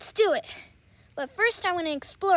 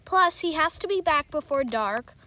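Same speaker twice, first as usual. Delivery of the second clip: a hint of a lower, fatherly voice; a father giving kind orders, voiced a bit lower; lightly voiced dad; 5 semitones lower than usual. Dad reminding his son to be home before dark, lightly lowered.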